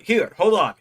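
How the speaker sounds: high, loud wrestler impression; Joe Hendry. Wrestler halts fan to get his phone, impersonated. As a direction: imitate a star eagerly taking over. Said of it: "not the best Joe Hendry impression".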